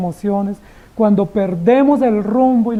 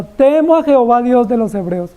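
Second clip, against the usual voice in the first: grand confession. Acted. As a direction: declare it like a proud vow. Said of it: "Hace una confesión maravillosa".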